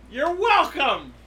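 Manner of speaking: loud, high, drawn-out brag; crowing triumph. Pretend. Podcaster who just solved a friend's question, crowing. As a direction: stretch it out, pleased with yourself. Crowing after explaining a plot point.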